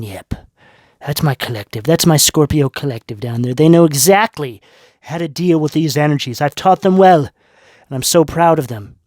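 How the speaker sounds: God looking down, proud and pleased; fond deity voice with a smirk. Retold or imitated. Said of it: "God looking down ... smirking, going".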